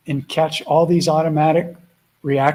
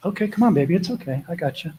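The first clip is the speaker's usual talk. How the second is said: soothing the dog; 2 semitones higher, 4 dB quieter, faster than usual. Real, not acted.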